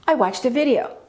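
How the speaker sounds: "video" jumps up, then falls; stress on video. Shown as a demonstration. Teacher repeating the model sentence, main stress on "video". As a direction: make "video" the strongest word. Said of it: "We generally say it like this".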